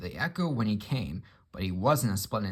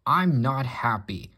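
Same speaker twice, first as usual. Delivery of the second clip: slow, louder grumbling complaint; complaining; 2 semitones higher, 6 dB louder, slower than usual. Acted. Gordon the engine complains to the others, slow grumble. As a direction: grumble it out slowly. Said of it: "complained Gordon".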